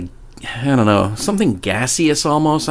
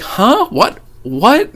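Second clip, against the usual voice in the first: higher, startled questions from someone just woken; a mock just-woken what; groggy confusion; 10 semitones higher, much slower than usual. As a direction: play the dazed kid jolting awake. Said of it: "he's just like".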